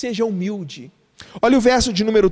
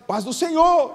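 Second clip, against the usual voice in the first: churchgoer greeting; 5 semitones higher than usual. Retold or imitated. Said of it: "falaria assim".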